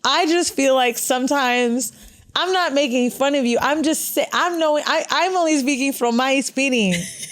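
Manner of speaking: mock-apologize in a Latina accent; playful Latina-accented English. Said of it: "Now I do an accent".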